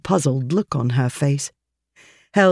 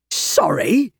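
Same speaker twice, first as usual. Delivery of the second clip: indignant man; 8 semitones higher than usual. A narrator's reading. Grumpy man confronts Alice.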